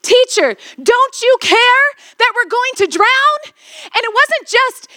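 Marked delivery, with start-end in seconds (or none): 0.0-3.4 retold shout. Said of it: "they were shouting".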